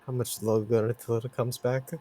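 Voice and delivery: quiet ask. Acted. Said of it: "is just like".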